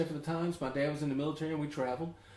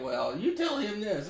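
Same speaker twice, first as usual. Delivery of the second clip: slow, higher-pitched imitation of the wife; mock passing-on; 6 semitones higher, slower than usual. Wife passing a message through her husband, mock insistent. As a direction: drag it out high, imitating her. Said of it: "She's like".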